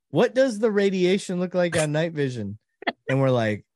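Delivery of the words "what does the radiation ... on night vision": higher-pitched, worried rookie imitation; retold nervous question. Scared rookie radios the control center about night vision, mock-nervous. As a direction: ask it high and uneasy, as the rookie.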